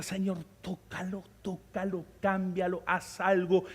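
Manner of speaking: mild pleading prayer, starting soft; a touch of earnest pleading; imitated prayer. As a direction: act out someone quietly interceding. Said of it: "Oraban sin vergüenza".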